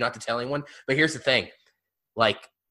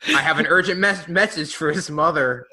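quoting Poe's joke; 4 semitones higher, 5 dB louder than usual. Retold or imitated. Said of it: "he does a "your mama" joke".

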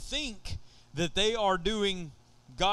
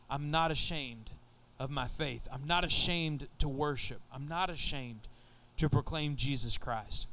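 low, softer, earnest declaration; sincere testimony; 5 semitones lower, 4 dB quieter than usual. Retold or imitated. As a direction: quietly voice a young believer's vow. Voices young believers standing up.

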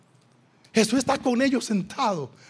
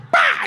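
slap sound. Shown as a demonstration. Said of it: "hace así".

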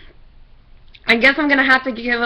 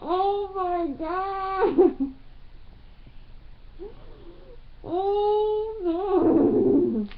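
breathless laughing; 9 semitones higher, 8 dB quieter, much slower than usual. Real, not acted. Laughing fit, far.

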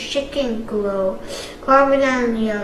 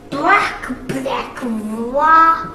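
choked cry; 4 dB louder, much slower than usual. Acted. Jay struggling to speak through a sore throat. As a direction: force the words through a hurt throat. Child voicing Jay choking.

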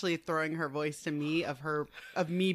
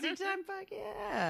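eager; 12 semitones higher, 8 dB quieter than usual. Real, not acted. Eager exclamation, high and breathy.

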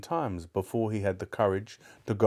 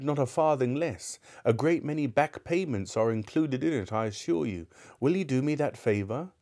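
lightly voiced Scrooge, higher and insistent; an old man pressing a favour; earnest Scrooge; 4 semitones higher than usual.

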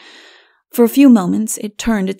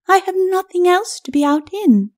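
higher, cool lady's voice; dry skeleton lady; 10 semitones higher than usual. A narrator's reading. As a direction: answer him with icy dryness.

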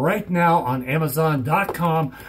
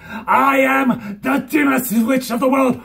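proud shout; 6 semitones higher than usual. Pretend. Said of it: "playing with dimmer filter".

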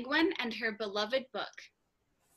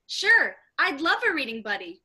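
excited proclamation; 2 semitones higher, 6 dB louder than usual. Acted. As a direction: announce it, thrilled. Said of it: "excitedly proclaimed".

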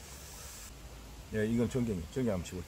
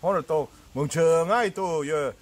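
talking while chewing food; speaking between bites; mouth full; 3 dB louder than usual. Real, not acted. Seen 0: Holds leaf wrap throughout; cheeks look full, lips pursed mid-speech.

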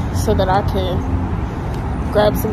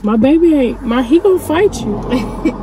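protective dog owner; 5 semitones higher, 5 dB louder than usual. Retold or imitated. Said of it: "I'm like".

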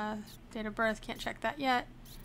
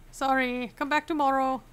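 louder, playful mock Arstotzkan accent; put-on Arstotzkan accent; 6 dB louder than usual. Inspector closing the checkpoint for the day, mock Arstotzkan accent. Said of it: "sorry for the accent".

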